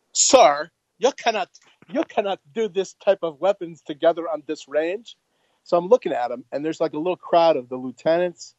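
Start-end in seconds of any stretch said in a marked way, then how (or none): 0.1-5.2 hint of a by-the-book objection, every word set out; officious sergeant. Range sergeant forbids lieutenant the weapons, lightly officious.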